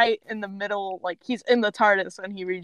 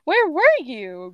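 smug; 4 semitones higher than usual. Acted. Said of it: "adopts a smug smile on her face".

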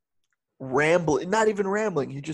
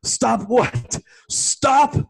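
louder, rising "Stop what?" twice; indignant father; 7 semitones higher, 6 dB louder, much slower than usual. Retold or imitated. Father hurls the question back at crying son, indignant. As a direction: demand it back, offended and rising. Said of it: "And he goes".

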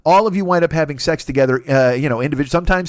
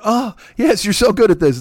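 higher-pitched put-on moan of pleasure; hammed-up, faked pleasure; mock ecstasy; 8 semitones higher, 4 dB louder than usual.

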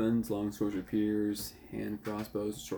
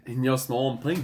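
mimicked Australian accent; 3 dB louder than usual. Player teasing the game master with a copied Australian accent. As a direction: imitate a thick Australian accent. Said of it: "That was one hundred percent Australian".

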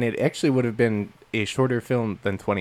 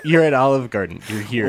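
wet voice. Retold or imitated. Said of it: "in a wet voice".

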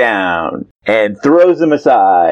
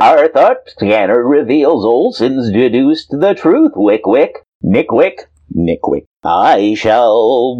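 lightly voiced alien; a hint of an odd alien. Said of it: "That's my alien voice".

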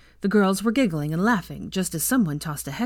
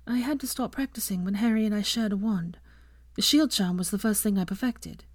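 subdued Hermione; 4 semitones higher than usual. Acted. Hermione explains her shield practice to friends, subdued. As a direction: explain modestly in a light, raised register.

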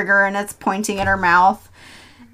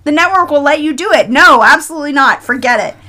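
raised, brisk mock refusal; emphatic refusal; 4 semitones higher, 4 dB louder than usual. Bletch refusing the director his song, emphatic mock refusal. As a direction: act out firmly shutting someone down.

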